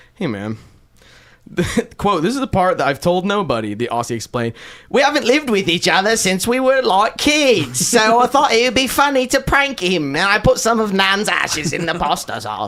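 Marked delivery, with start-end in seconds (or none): 4.9-12.7 put-on chimney sweep character voice. Reading out an Australian man's quote about a prank; chimney sweep voice. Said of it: "I'm doing like a fucking chimney sweep voice".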